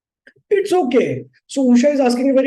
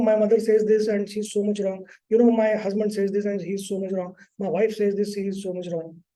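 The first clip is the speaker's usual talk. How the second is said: lightly voiced griping client, a bit softer; complaining client; 2 semitones lower, 5 dB quieter than usual. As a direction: mimic a client who blames everyone, slightly hushed. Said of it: "So typical clients talk like this".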